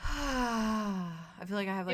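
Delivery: breathless sigh; winded, slow and panting; out of breath. Real, not acted. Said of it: "Let me catch my breath".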